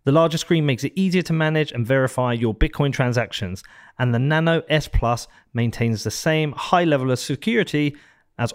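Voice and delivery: steady, polished podcast ad read; sponsor ad read. Acted. Podcast host reading sponsor ads to his listeners, polished ad read. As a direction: sell it smoothly like a sponsor spot.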